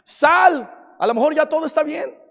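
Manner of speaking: a hint of a sly devil coaxing; tempting devil. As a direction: lure them out sweetly like a tempter. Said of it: "el diablo usa ese lugar para decirte".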